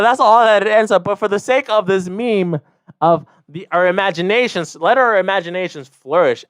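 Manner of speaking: ordinary delivery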